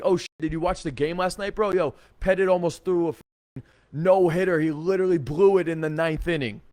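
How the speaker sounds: acting out an upbeat sports-fan opener; loud, good mood. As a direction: chat up the group loudly, like a cheerful bro. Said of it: "really loud and in a good mood".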